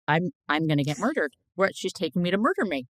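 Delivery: quick, rising mock alarm; mock panic. Guest retelling fear of a night drive, mock panicked. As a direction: retell it as hurried, mildly panicked disbelief.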